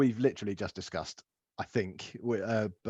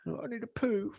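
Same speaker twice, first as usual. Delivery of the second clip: put-on child's voice; 13 semitones higher, 6 dB quieter than usual. Son's quote voiced by dad.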